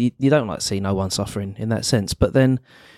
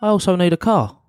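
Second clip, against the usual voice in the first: high, cheeky beggar voice, slowing and laughing; mock greedy beggar; 8 semitones higher than usual. Mate jokes as the greedy beggar, high and laughing. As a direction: play a chancer asking for more. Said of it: "He's a magician".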